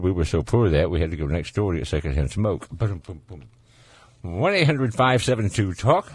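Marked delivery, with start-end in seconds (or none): 2.7-3.4 quick, soft "boom, boom, boom" drum hit; imitated rimshot. Shown as a demonstration. Host caps a secondhand smoke joke, soft mock rimshot. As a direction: punctuate the joke with a mouthed drum sting.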